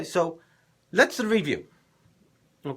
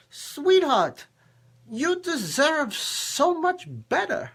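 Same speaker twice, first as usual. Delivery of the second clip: higher-pitched heartfelt plea, acted out; imagined earnest aside; 4 semitones higher than usual. Imagining taking a mistreated woman aside, earnest plea. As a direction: draw out the opening words, pleading with her. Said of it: "take her aside and go".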